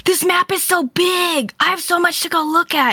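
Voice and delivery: retold excitement. Retelling own awe at map.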